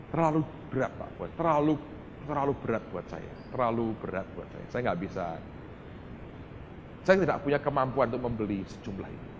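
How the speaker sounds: mildly subdued, apologetic decline; lightly acted hesitant refusal, repeating yourself; reluctant refusal. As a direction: softly plead that it is beyond you. Retold reluctant refusal on phone.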